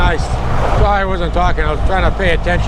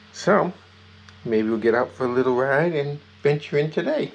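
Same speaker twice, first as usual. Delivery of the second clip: hushed voice; 6 semitones lower, 10 dB quieter than usual. Real, not acted. Hushed talk beside nursing puppies.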